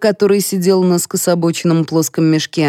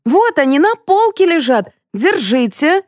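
servant voice; 10 semitones higher than usual. A narrator's reading. Lyudmila's voice, a servant.

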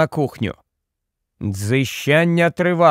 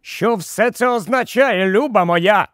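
higher, incredulous rebuke; exasperated outburst; 5 semitones higher than usual. Acted. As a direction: burst out at his wife in disbelief. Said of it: "вибухнув тепер уже Генрі". (роздратований вибух обурення)

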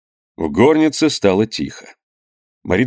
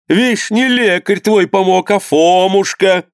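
excited; 10 semitones higher, 3 dB louder, slower than usual. A narrator's reading. Mother triumphs over the doctor.

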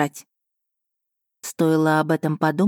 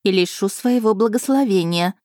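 serious sinister voice; 3 semitones higher than usual. Acted. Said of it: "совсем другим, серьёзным и зловещим голосом".

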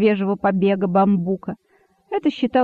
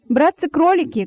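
higher, moderately raised appeal; calling out; 7 semitones higher, 3 dB louder than usual. A narrator's reading. Monkey addressing the rabbits from the tree, calling out. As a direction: hail the crowd from above. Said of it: "кричала мартышка".

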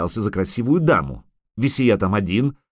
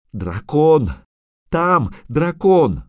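urgent cry of warning, climbing higher; alarmed cry; 7 semitones higher, 4 dB louder, much slower than usual. A narrator's reading. Cobbler warning the lords of a dragon, alarmed. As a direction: sound the alarm, stretching the last words.

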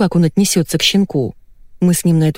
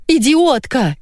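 high shrieked insult; yelling; 9 semitones higher, much slower than usual. Acted. Jealous wife yelling at husband on phone, high shriek. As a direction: shriek it at him. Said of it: "заорала Наташа".

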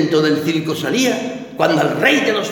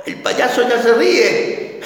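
higher, slow, strained mock cheer; forced cheer; 6 semitones higher, slower than usual. Grieving clown telling the audience he's happy, forced cheer. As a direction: play happy while breaking inside.

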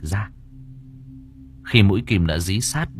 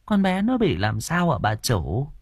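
higher, slow worried asking; concerned question; 5 semitones higher than usual. A narrator's reading. Cook asks her mistress about the girl, concerned. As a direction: ask slowly, with concern.

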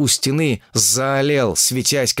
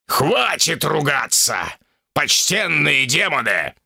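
loud roar; 4 semitones higher, slower than usual. Acted. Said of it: "громко прорычал".

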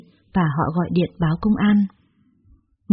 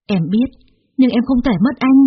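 slow desperate cry, higher and louder; cling to him with your voice; 5 semitones higher, 5 dB louder, slower than usual. A narrator's reading. Woman desperate not to lose him. (giọng tuyệt vọng níu kéo)

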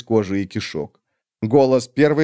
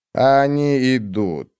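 cold witch; much slower than usual. Acted. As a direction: drag each word out, icy and dismissive. Olar Ethil, slow.

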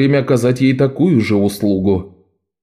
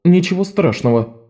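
put-on quiet boy; 7 semitones higher than usual. A narrator's reading. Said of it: "сказал Лок".

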